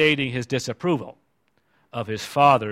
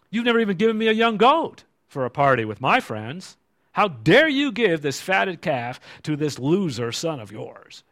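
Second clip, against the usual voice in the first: mock indignant son; 4 semitones higher than usual. Older son complaining to his father, mock indignant. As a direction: whine it like an aggrieved son.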